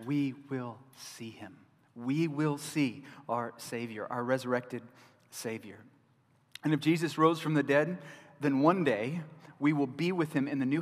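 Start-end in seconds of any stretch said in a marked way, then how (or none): 0.1-5.8 slow, soft, reverent; awed and slow. Real, not acted. Preacher to his congregation, slow reverent awe. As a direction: let the wonder sink in.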